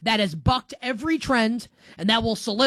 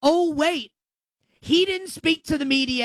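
mock surprise; 7 semitones higher than usual. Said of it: "feigned realisation".

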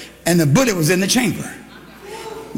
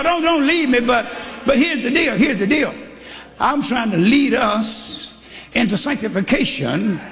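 full-force preaching; 3 semitones higher than usual. Acted. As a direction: drive it home to the pews. Preaching to the congregation.

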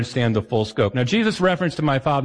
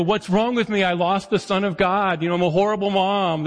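higher, self-blaming mom voice, lightly acted; distraught mom; 5 semitones higher than usual. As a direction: play a mom who blames herself, only a hint. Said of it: "Or there's the".

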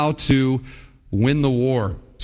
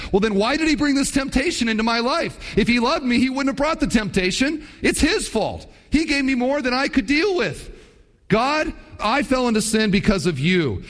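a hint of a higher, self-pitying whine; lightly voiced grumbler shifting the blame; whiny complaint; 6 semitones higher than usual. Preacher voicing a believer blaming God, mildly whiny.

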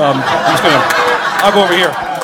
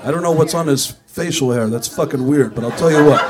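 lightly mock Gene, louder; pretending to be Gene; 3 dB louder than usual. Comic answers as Gene to the camera guy, mildly louder. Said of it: "pushed him out of the way and went".

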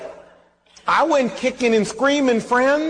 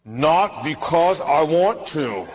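grudging; 3 semitones lower, slower than usual. Retold or imitated. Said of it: "I felt like saying".

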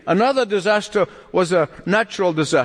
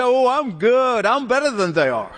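smug; 3 semitones higher than usual. Retold or imitated. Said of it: "pat yourself on the back and say".

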